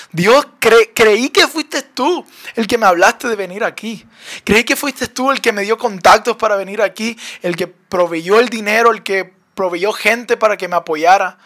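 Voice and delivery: mildly reproachful plea, slightly heated; acting out a frustrated complaint; retold anger. Detained traveler questioning God who sent him here, mildly angry. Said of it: "Así me sentía yo con Dios, enojado".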